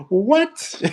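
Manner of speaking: a shocked, disbelieving cry; high-pitched incredulous what; stunned what. Retold or imitated. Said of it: "And I'm like".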